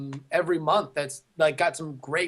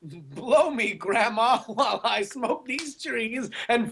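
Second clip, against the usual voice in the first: laughing; 4 semitones higher than usual. Pretend. Mock Franklin line, laughing.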